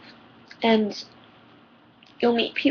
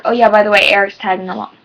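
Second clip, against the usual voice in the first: offhand announcement, starting loud; imitating friend; 7 dB louder than usual. Friend springing a boyfriend on girls' days, mock casual. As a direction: toss it in as a mock afterthought. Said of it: "and then be like".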